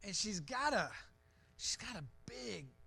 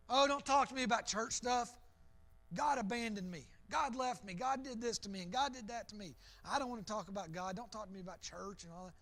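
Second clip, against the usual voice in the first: bitter brush-off; faster than usual. Retold or imitated. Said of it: "we've all known people like this".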